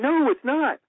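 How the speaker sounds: high, loud snap of a refusal; angry denial. Retold or imitated. Director angrily refusing the room's praise, high loud snap. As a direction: insist hotly that it isn't. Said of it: "he was getting super angry".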